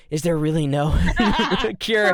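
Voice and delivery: laughing, rising to a loud high wail; playfully hammed-up desperation; mock desperate plea. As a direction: plead in exaggerated despair through laughter. Mock despair over having no cure.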